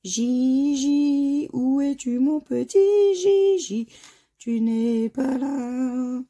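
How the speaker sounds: drawn-out, high playful call with a cracking voice; long, slow mock-searching wail; slightly cracked voice. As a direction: call out for a lost pet name, voice slightly breaking. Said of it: "j'ai un peu la voix cassée".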